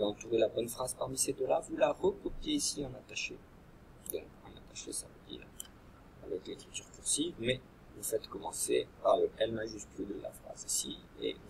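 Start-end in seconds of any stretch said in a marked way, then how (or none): 4.1-7.3 soft unvoiced explanation; whispered aside. Real, not acted. Teacher quietly explaining cursive to pupils, whispered.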